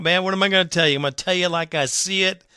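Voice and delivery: ordinary talk, nothing marked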